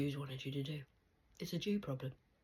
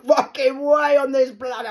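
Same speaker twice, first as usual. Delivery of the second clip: much louder and higher, swearing yell; furious shout; 9 semitones higher, 17 dB louder than usual. Real, not acted. Refusing to go down there, furious shout. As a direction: bellow the refusal.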